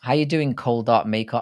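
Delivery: a hint of an Australian greeting, barely shifted; mock Australian accent. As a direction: tries an Aussie accent but stays close to his own voice. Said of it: "do I sound Australian, mate?".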